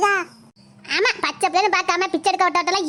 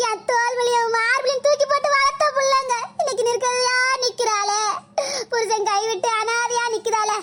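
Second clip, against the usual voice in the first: fake crying. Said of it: "நடிப்பு நடிக்காம".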